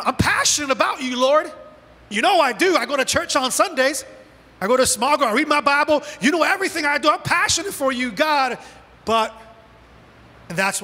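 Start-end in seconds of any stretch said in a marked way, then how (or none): 0.0-8.6 higher-pitched, earnest self-justifying; Elijah pleading devotion. Acted. Elijah defends himself to God, acted earnest pleading. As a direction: list your devotion insistently, pitch raised. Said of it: "What does Elijah respond?".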